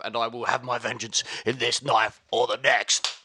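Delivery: lightly acted gladiator general, vowing vengeance; solemn vengeful speech, held steady; Maximus. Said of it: "From Here's Johnny to".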